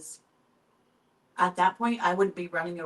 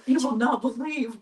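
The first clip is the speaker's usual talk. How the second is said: loud, high, excited with a laugh; retold excitement; 6 semitones higher, 8 dB louder than usual. Calling husband with owl news, loud laughing excitement. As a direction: burst out with breathless-to-tell excitement, laughing. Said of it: "I was so excited".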